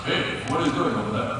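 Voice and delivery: quick, lightly put-on broken Spanish accent; laughing imitation of a dubbed Spanish accent. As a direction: mimic the bad Spanish overdub, laughing through it. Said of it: "broken Spanish accent".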